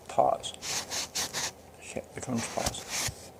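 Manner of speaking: whispered aside, slow; muttered whisper. Real, not acted. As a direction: mutter it under your breath. Muttering to self at camera.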